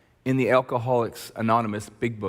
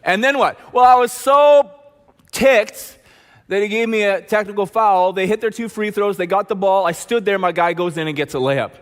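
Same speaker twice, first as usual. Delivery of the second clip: loud, higher, heated retelling; furious player; 7 semitones higher, 7 dB louder than usual. Retold or imitated. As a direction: rant like a still-fuming teen. Player recounts meltdown furiously.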